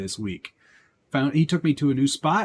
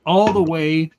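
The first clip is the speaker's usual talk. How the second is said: chewing while talking; talking while eating; 5 semitones higher, 8 dB louder, slower than usual. Real, not acted. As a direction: mouth full of meat. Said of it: "Sorry, I'm eating some meat".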